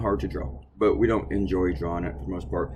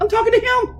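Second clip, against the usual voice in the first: much higher mock version of his own reply; high-pitched mock retort; retold retort; 5 dB louder than usual. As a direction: replay your answer in a high put-on voice. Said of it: "And I'm like".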